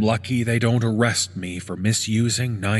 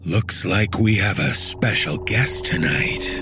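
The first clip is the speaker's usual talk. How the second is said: creepy announcer; 4 semitones lower than usual. Acted. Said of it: "the D J announced".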